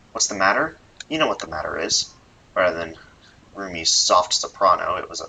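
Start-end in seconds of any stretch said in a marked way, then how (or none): 0.1-2.1 a hint of a gruff, menacing father; lightly voiced threatening dad. Father menacing his daughter's boyfriend on the phone, mock gruff. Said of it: "threatening, muscular, masculine voice".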